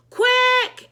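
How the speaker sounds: high loud urgent yell. A narrator's reading. Mister Klutz demanding help, a high loud yell. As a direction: snap the order. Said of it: "he yelled".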